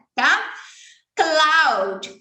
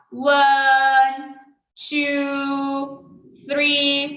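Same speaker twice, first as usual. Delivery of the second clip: counting aloud; 5 dB louder, much slower than usual. Shown as a demonstration. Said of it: "fala em voz alta enquanto você faz o número".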